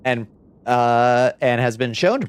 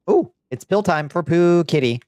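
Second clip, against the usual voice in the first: sing-song announcement; 6 semitones higher than usual. Real, not acted. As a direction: announce pill time like a treat. Announcing pill time to cat.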